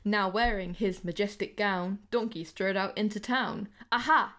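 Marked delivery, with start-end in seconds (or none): 3.9-4.4 big triumphant shout; loud call. A narrator's reading. Donkey strutting into town, shouting triumphantly. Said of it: "he called".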